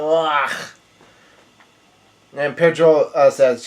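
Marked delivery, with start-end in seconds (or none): 0.0-0.5 half-hearted groan of effort; mock yelled groan. King Bomb yells out while running, mock yelled groan. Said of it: "he ye-, yells out".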